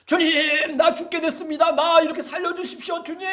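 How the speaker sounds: high, loud desperate plea; a pleading shout of prayer, pitched high; crying out to the Lord. Pretend. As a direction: cry out to God as if dying. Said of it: "하고 소리를 지르는 거예요".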